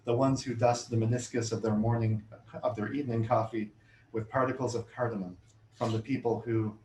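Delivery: measured, deliberate poem recital; poetry reading. Acted. Reads the poem Spices.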